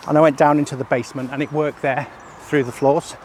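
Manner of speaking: breathless after walking; out of breath. Real, not acted. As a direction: talk while out of breath. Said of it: "as I'm out of breath".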